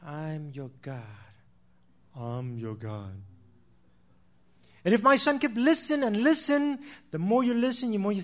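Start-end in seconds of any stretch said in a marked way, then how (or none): 2.2-3.2 much lower, slow robotic toy voice; deep, slow mechanical toy voice; talking toy voice. Retold or imitated. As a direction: sound like a programmed toy announcing itself. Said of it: "pre-programmed that say".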